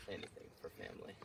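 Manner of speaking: mock Dom Toretto line. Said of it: "Say it one more time".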